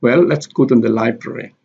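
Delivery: "Well" stressed, "library" stressed on its first syllable. Shown as a demonstration. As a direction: lean on "Well", then on "LI-brary". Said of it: "Library here is also stress".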